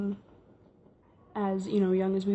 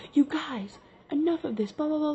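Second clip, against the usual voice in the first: lightly imitated scolding dad, pitched up; mock parental scolding in a higher pitch; fed-up dad; 6 semitones higher than usual. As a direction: retell an exasperated parent's telling-off.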